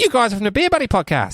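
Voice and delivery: high excited staff voice; mock staff. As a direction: play the starstruck barman. Acting bar staff recognizing them.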